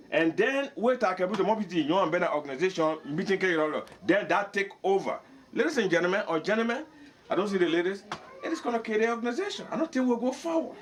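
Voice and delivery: high-pitched, impassioned argument. Real, not acted. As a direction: press the point with a high, worked-up voice. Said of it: "I'm saying it with emotion, I'm yelling, my voice is high".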